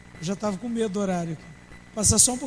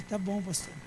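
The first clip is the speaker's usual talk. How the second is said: meek giving in; 4 semitones lower, 9 dB quieter than usual. Retold or imitated. Rebuked member gives in.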